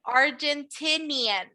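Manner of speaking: slow, careful Argentinian; teacher modelling the word slowly; slow model word. Shown as a demonstration. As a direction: spell it out slowly for learners. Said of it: "what we call people from Argentina is".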